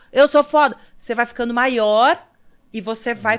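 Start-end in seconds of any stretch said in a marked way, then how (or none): 0.2-0.8 nearly shouting, stepping up, loud and pitched up. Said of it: "fala mais alto".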